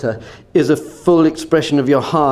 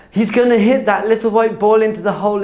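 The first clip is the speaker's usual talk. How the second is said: high, breathless spectator excitement; hammed-up awe at a tiny feat; mock awe; 6 semitones higher than usual. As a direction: marvel like an overexcited golf fan. Acts out excited golf crowd.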